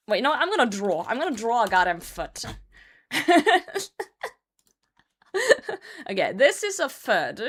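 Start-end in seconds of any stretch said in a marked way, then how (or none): 3.1-4.3 a burst of high, bright laughter; high giggle. Real, not acted. Streamer laughing at her foot drawing, high giggle. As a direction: crack up at your own bad drawing.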